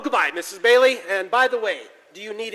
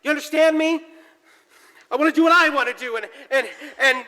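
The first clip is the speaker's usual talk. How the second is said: angry outburst; 4 semitones higher than usual. Acted. George shouts at Mary he won't marry, building higher. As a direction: build from anger to breaking.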